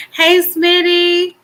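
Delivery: high, slow sing-song hello; sing-song greeting. Real, not acted. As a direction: call out a playful high hello.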